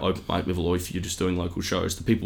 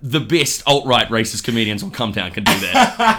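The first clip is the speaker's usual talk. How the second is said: high, loud laughing sarcasm; mock the edgy comics while laughing; real laughter, sneering; sarcastic laughing rant; 7 semitones higher, 5 dB louder, slower than usual. Real, not acted.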